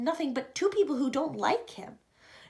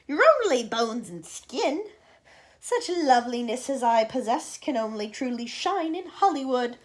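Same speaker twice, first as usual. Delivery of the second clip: Aunt Sponge's voice; 4 dB louder than usual. Acted. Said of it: "Aunt Sponge cried out".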